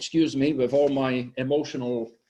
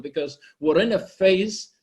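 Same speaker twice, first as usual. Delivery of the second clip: ordinary talk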